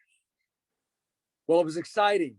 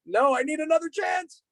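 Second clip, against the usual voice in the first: put-on much higher, begging child's voice; pleading boy; 13 semitones higher than usual. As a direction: play the son begging the judge. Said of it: "Jack's looking at him like".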